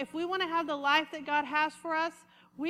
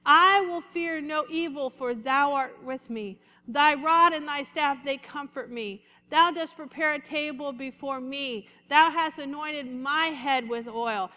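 louder, stressed reading of thou and thy; addressing God directly; 4 dB louder than usual. Shown as a demonstration. Preacher showing how David turns to speak to God as thou, with emphasis. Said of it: "he starts saying it like this".

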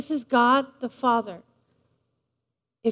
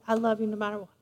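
low, hushed loving promise; soft and low, meant to comfort; tender reassurance; 6 semitones lower, 9 dB quieter, much faster than usual. Acted. Preacher repeating the Father's promise to the congregation, tender. Voicing God the Father's love.

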